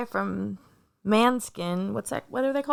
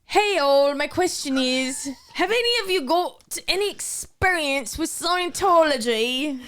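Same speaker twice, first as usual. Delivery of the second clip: put-on Irish accent; 2 semitones higher than usual. Reading a listener's question aloud in a hammed-up Irish accent. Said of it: "In my Irish accent?".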